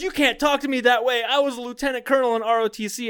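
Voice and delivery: mock his self-importance while cracking up; laughing mock pompous. Retelling the recruit's boast, laughing mock pompous. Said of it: "He goes".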